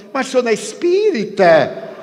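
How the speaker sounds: pergunta incrédula, bem mais aguda e mais alta; espanto. Retold or imitated. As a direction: duvide em voz alta. (estranho espantado, agudo e alto)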